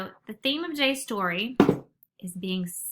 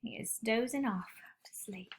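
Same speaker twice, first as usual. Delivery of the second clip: whisper; 7 dB quieter than usual. A narrator's reading. Narrator hushes sleeping bear.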